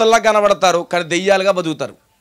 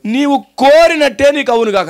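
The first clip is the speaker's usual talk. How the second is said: declared high and loud, the first take; loud proclaimed blessing; ringing proclamation; 5 semitones higher, 3 dB louder than usual. Shown as a demonstration. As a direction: proclaim Jesus' words with force. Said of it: "ఏమాట అన్నాడు?".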